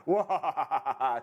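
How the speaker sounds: laughing mock evil cackle; a second go at a villain's cackle, with real laughter; hammed-up evil laugh while giggling; evil scientist laugh. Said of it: "a better job of the evil scientist laugh".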